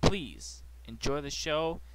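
soft, measured inspirational intro; solemn opening message. Acted. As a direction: read a quiet, solemn dedication before the show. Reads a solemn show opening.

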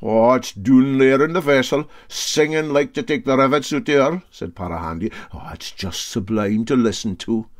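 lightly voiced boastful old sailor; Para Handy, sly Scots skipper.

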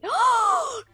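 sharp frightened gasp; scared gasp. Real, not acted. Sudden scare in game.

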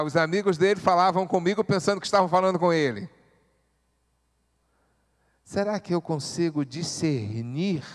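usual speaking voice

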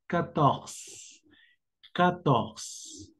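"catorce" said the French way, as katorz; French quatorze. Shown as a demonstration. Teacher showing students how to say quatorze. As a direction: say "catorce" like quatorze, clipping the final e. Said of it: "como de esta forma".

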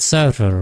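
"server" starting with a plain s; S sound for C. Shown as a demonstration. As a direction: say "server" with s, no Spanish th. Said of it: "I said server".

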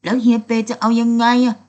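loud, high, exasperated snap; snapping back. A narrator's reading. Ava snaps back at sulking Petong, loud and high. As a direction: bark it back at him, fed up. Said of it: "เอวาตะคอกกลับ".

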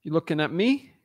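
a hint of a Jersey tough guy; lightly put-on Jersey accent, mobster challenge. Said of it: "Should I do my Jersey accent?".

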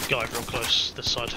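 loud alarmed warning; urgent callout. Real, not acted. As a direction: warn the squad, fast and loud. Enemy spotted near.

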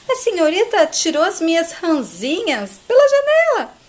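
high, swooping wail of complaint; hammed-up aggrieved astonishment; dismayed protest. Peixoto laments his discarded frogs.

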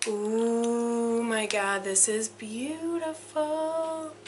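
very slow, soft and drawn out; real quiet awe; slow awed hush. Real, not acted. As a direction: savour each word in wonder. Awed by the necklace.

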